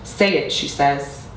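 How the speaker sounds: measured, deliberate poetry recital; spoken-word poetry. Acted. Poet performing own piece on language for an audience, spoken-word recital. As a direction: recite it line by line with weighted pauses.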